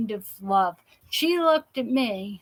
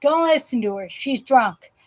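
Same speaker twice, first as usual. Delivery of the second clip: louder, quick dismissive aside; girlfriend's retort; 6 dB louder than usual. Retold or imitated. Girlfriend telling a stranger to ignore the drunk speaker, louder. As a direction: wave off the drunk friend. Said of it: "looks at me and looks at her".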